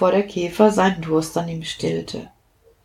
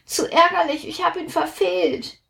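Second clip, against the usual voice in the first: high, fading grumble, softer at the end; grumbling; 10 semitones higher, 4 dB quieter than usual. Acted. Platsch complains he missed the brook, a high grumble. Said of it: "meckerte Platsch".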